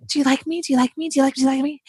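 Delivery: mock needy Southern plea; Southern people-pleaser. Women at a Southern party, mild needy pleading. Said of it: "It's a Southern".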